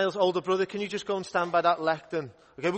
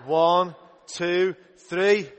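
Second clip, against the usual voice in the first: group count, louder this time; louder shout; 5 dB louder, much slower than usual. Real, not acted. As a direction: count them in, loud and clear. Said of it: "a little bit louder".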